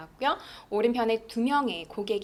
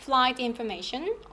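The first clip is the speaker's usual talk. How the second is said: "flight information" joined, lifting at the end; linked, rising intonation; 2 semitones higher, much slower than usual. Shown as a demonstration. Teacher models a list of nouns, rising on "information". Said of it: "연음하시면서 올려주시고요".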